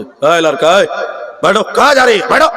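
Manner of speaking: mock cross call to sit down; lightly hammed-up scolding in Hindi; imitated irritable speaker. Speaker stopping a boy leaving the gathering, imitated irritation. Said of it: "বক্তার মিজাজ খুব খারাপ".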